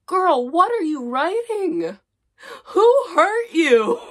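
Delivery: high, loud, slow disbelief; mock horror. Real, not acted. Reacting to her old fic, loud mock horror. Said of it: "mock-horrified at own writing".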